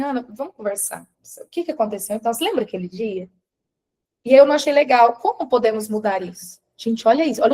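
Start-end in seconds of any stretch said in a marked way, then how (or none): 0.0-3.3 calm quiet talk. Shown as a demonstration. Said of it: "eu chego pra Ana e falo assim".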